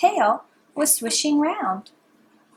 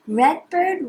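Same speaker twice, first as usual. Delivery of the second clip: higher, bright calling tone; sing-song call; 5 semitones higher, 4 dB louder than usual. Shown as a demonstration. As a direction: call out the name. Repeat call.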